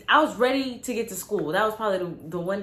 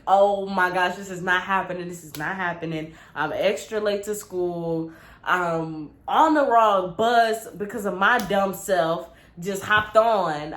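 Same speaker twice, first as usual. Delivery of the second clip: panicked inner monologue; 2 semitones lower than usual. Retold or imitated. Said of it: "I'm getting even more just like".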